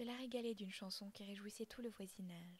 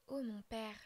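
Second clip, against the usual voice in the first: supplication; 5 dB louder than usual. Acted. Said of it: "lui dis-je".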